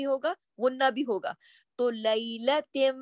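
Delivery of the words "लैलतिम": "लैलतिम" slowly, the final m hummed through the nose; nasal ghunnah. Shown as a demonstration. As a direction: hold "लैलतिम" on a long nasal m. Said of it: "आवाज नाक में जा रही".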